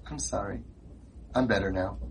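put-on a humbled boy at the door; mock contrite child; meek sorry kid. Chastened kid returns next day.

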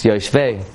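"yoshvei" with the stress on the last syllable; correct pronunciation. Shown as a demonstration. Rabbi correcting the misreading, "yoshvei" stressed on the end. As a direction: say "yoshvei" evenly, leaning on its ending. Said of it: "There's no word yoshvei".

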